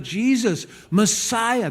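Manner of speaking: high-pitched imitated cry. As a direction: call out, without real volume. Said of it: "So he cries out".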